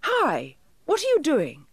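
shouted challenge, rising in pitch; shouted call. A narrator's reading. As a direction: call out high to someone far off. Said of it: "he shouted".

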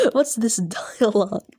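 giggly whispered aside. Real, not acted. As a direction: whisper it while laughing. Laughing aside at the dialogue.

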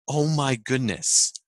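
slow, halting aha moment; drawn-out, amazed self-discovery; dawning realization. Retold or imitated. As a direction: let it dawn word by word. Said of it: "like an aha moment".

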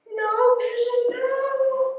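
high, loud no, pigeon; teacher crying out at the pigeon; warning no. Acted. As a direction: call out to stop him. Pigeon in the truck.

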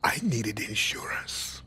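slow hushed confession; slow secretive whisper; low whisper. Acted. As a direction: whisper it slowly, almost to himself. Confession to prisoners.

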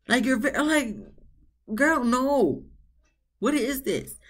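a disbelieving scold that rises high; exasperated scolding. Retold or imitated. Host scolding Jasmina on the TV, exasperated and incredulous.

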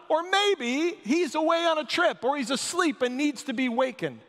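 high sarcastic taunt; mocking. A narrator's reading. Elijah keeps taunting the prophets, high mockery. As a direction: tease them with mock concern. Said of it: "Elijah began mocking them".

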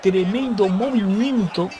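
high, rising hype call; excited play-by-play. Real, not acted. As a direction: call the big move at full hype. Spear through the barricade. (narración emocionada con el tono alto)

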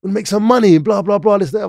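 high, persuasive teen imitation; older boys voice. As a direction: coax like a slick older kid. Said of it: "was like".

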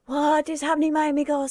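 YouTuber greeting. Retold or imitated. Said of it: "some YouTubers".

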